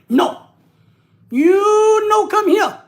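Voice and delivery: high, loud, drawn-out mock Asian accent. Meme refusing him a place in the German family, mock Asian accent. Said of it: "maybe that's my Asian voice".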